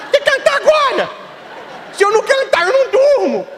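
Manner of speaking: put-on high kid's tantrum with a laugh in it; stubborn little boy. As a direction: push it like a small kid who won't wait. Boy answering the bishop.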